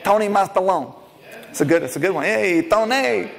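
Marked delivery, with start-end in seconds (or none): 2.2-3.3 drawn-out, higher-pitched hail; calling out. Real, not acted. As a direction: greet Tony across the room with stretched syllables. Calls out to Tony in the room.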